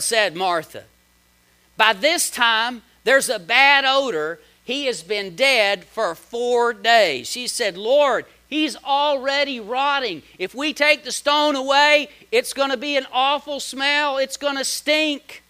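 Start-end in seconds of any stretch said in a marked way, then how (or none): 1.8-7.3 louder, slowed protest; Martha objecting. Acted. 7.8-15.4 louder, slowed protest; Martha objecting. Acted.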